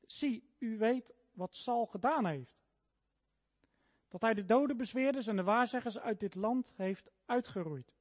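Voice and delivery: steady, measured reading of a Bible passage aloud; scripture reading. Acted. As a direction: read the scripture to the congregation, unhurried. Reads Saul and Endor passage. (voorlezen uit de Bijbel, rustig en plechtig)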